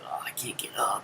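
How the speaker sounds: soft, breathy fake plea; mock helpless whine. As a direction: play the helpless victim. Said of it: "I was like that, those commercials".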